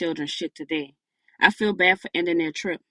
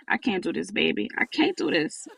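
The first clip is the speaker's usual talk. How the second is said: crying; 2 semitones higher than usual. Acted. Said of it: "Through the crying".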